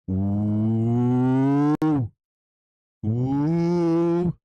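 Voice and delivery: a loud, impressed ooh at the chart. Real, not acted. Reacting to the whale shark move.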